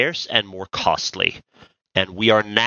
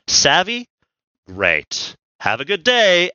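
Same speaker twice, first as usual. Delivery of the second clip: blunt angry CFO. Retold or imitated. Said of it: "stepped into a room and said".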